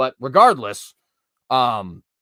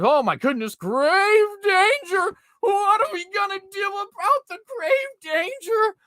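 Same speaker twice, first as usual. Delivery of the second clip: much higher, slow, whiny alarmed voice; mocking panic; slower than usual. Vlogger mocking officials panicking about grave danger, shrill mock alarm. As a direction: ham up a frantic old fool. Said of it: "what these people remind me of".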